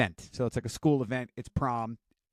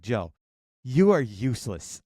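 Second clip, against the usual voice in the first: endearing tease; 4 dB louder, slower than usual. Retold or imitated. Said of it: "in the most endearing way possible".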